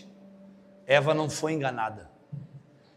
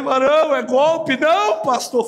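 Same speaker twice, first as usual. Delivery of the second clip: loud, high retold warning; animated retold warning; 9 semitones higher, 7 dB louder, slower than usual. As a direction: warn him it's a scam. Diálogo encenado com fiel. (aviso encenado, alto e agudo)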